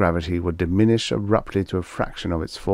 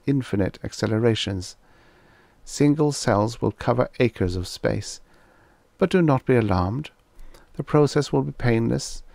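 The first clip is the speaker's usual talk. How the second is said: lightly raised, calm alien reassurance; a hint of the envoy, soothing the prisoners; alien voice in mind; 4 semitones higher than usual. Alien reassuring Rosalind and Ivan, lightly raised calm voice. Alien speaks inside their minds.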